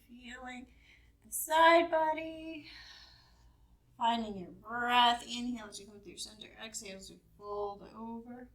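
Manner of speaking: measured yoga-class guidance with long pauses; guided yoga instruction. Real, not acted. Leads a gentle yoga warm-up.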